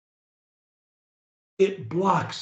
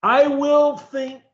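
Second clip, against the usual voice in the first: careful pronunciation; 5 semitones higher, 3 dB louder than usual. Shown as a demonstration. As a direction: draw out every word with full articulation. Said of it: "pronunciation of every word".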